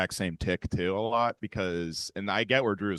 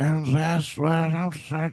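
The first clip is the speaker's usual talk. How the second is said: put-on very old man's voice, slightly high; 8 semitones higher, 3 dB louder than usual. Showing how he sometimes sounds really old: old-sounding Trump impression. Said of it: "Trump now will sound really old".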